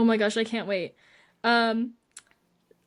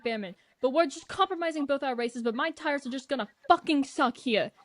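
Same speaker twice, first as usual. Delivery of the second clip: held-back mock yell, pitched up; restrained imitation of a yelled radio outburst; George Russell; 3 semitones higher than usual. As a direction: mimic an irate driver's rant without full volume. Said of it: "He yells this. I'm gonna try my best to mimic without s-, disturbing the entire building".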